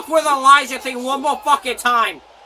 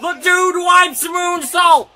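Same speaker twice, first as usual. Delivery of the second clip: excited play-by-play; 4 semitones higher than usual. Real, not acted. Calling the moves live.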